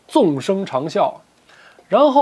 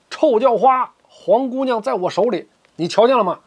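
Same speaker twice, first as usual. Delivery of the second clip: taunting shout; 4 semitones higher than usual. Acted. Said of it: "也朝远处喊话说".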